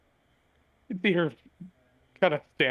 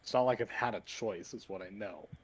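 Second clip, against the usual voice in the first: muttering; 3 semitones lower, 7 dB quieter than usual. Acted. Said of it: "Adora looks on back and mutters".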